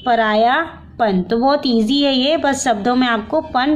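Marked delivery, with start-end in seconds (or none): 0.1-1.2 very slow, drawn-out लड़कपन, कालापन, सीधापन, अपनापन, परायापन; teacher dictating word answers very slowly; slow dictation. Shown as a demonstration. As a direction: stretch each word slowly so students can write it down. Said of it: "इसमें पन हम add कर देंगे".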